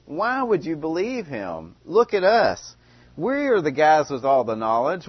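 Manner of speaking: Pharisees' anger. Retold or imitated. Pharisees scolding the officers, arrogant and angry. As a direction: scold the listener from above, proud and affronted. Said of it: "you can see their anger".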